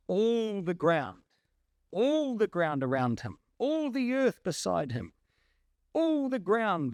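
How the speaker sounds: ALL hit and falling each time; stress on all. Shown as a demonstration. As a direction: punch "All" in every repeat. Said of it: "preacher hammering a repeated phrase".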